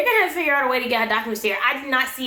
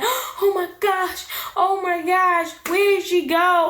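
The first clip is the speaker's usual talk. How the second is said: high-pitched, whiny near-tearful imitation; hammed-up panicked wail, much higher; mock panic; 8 semitones higher, slower than usual. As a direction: act out a man about to cry. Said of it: "Panicking. You know Ed panicking, about to cry".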